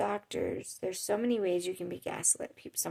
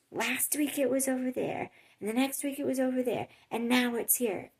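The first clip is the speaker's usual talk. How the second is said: higher, imitated indignant complaint; so angry; 4 semitones higher, 3 dB louder than usual. Lady complains to the worker about moved stock, mock angry. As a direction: complain heatedly, as an irate shopper. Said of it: "And then she just was so angry".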